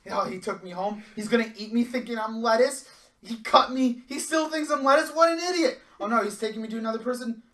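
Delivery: high, loud sneaky cabbage, laughing; panicked cabbage voice. Acted. A cabbage posing as lettuce, high, loud, laughing panic. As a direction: play a cabbage spy, getting caught. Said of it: "Metal Gear exclamation point goes up".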